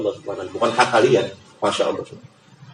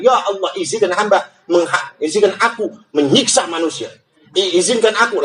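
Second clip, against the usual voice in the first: higher, urgent begging; pleading creation; 4 semitones higher than usual. Acted. Sky begging God to punish mankind, high and urgent. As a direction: plead for permission, pitched up.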